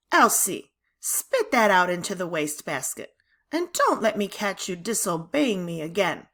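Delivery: a touch of a sharp, stern teacher scolding; lightly voiced strict teacher reprimand. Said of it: "voice was so sharp".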